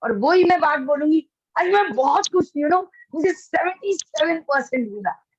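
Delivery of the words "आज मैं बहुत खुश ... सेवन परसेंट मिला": "आज मैं बहुत खुश हूँ" said bright and lifted with real happiness; joyful, energetic. Shown as a demonstration. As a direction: sound truly delighted at the score. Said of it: "तो आपको एक energy आती है". (खुशी और एनर्जी से भरी आवाज़)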